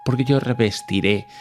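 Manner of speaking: calm him down like a kindly deity, only lightly voiced; reassuring God. God soothes the frightened climber in the joke, mildly voiced fatherly reassurance.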